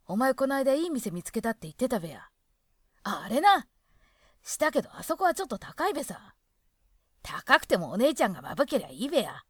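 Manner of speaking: loud, lively two-man banter in broad Hokkaido dialect; Hokkaido dialect dialogue. Shown as a demonstration. Reading a dialect sample skit to listeners, lively Hokkaido dialect banter. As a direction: act out both drinking buddies in Hokkaido dialect. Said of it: "これについては軽く読みますね".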